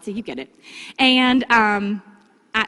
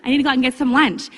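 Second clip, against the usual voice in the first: chatty opener demo; 3 semitones higher, 4 dB louder than usual. Shown as a demonstration. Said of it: "example opener at a festival".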